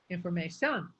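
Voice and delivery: "information" with French-style final stress; French-accented "information", last syllable lifted; French-sounding. Shown as a demonstration. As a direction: say "information" as the French would, weight on the end. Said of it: "we're sounding like we're French".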